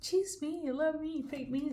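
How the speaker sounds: mock-plead to be chosen; pleading lover. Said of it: "they're just like".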